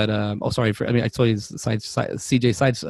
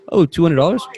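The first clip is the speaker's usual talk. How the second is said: louder, higher echoed question; mock-surprised double-check; perked-up surprise; 5 semitones higher, 6 dB louder than usual. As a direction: react with sudden interest to a big offer. Suddenly keen at customer's cash offer.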